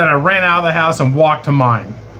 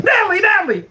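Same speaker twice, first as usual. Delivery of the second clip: yelling her name; faster than usual. Retold or imitated. Naked boss calling his sleeping girlfriend, mock high yell. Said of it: "And then he yelled out".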